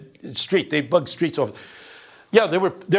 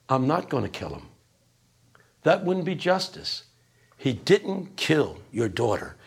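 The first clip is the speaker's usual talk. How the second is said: calm Godfather verdict. Retold or imitated. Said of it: "says the Godfather".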